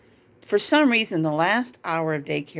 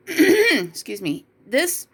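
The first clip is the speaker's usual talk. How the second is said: crying; 6 semitones higher, slower than usual. Real, not acted.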